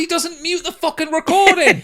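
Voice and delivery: high, loud laughing rant; laughing complaint. Real, not acted. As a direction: complain while cracking up. Laughing complaint about eating noises.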